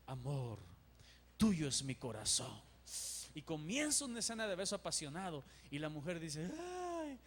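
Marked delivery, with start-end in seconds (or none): 0.1-2.6 deep, hammed-up soap opera heartthrob; low voice, wooing like a telenovela lover; galán de telenovela. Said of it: "el galán de telenovela y le dice". 6.6-7.2 high, soft, drawn-out swooning "ay"; mock lovesick sigh. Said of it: "Y comienzan a suspirar".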